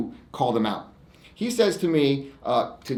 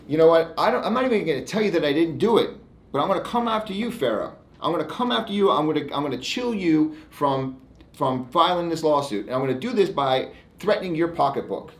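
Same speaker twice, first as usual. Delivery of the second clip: a raised, pushy threatening voice; mock bully lawyer; 5 semitones higher than usual. Lawyer imitating an opposing bully's threat in a raised mocking voice. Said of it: "The bully defense is".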